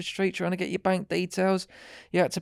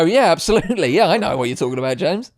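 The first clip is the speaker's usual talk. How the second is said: louder, bright put-on agreement; mock eager agreement; 7 dB louder, faster than usual. Co-host imagined agreeing with James, mock eager. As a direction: voice the ideal co-host keenly. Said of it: "I expect you to go".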